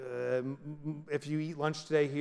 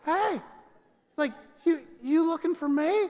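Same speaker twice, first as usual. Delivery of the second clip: tough-guy toothpaste; 9 semitones higher, 3 dB louder than usual. Acted. Turtle head toothpaste speaks.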